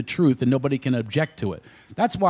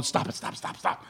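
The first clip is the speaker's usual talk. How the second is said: urgent whisper, much softer; whispered plea; 8 dB quieter than usual. Retold or imitated. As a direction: hiss it off-mic so nobody hears. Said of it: "I'm going".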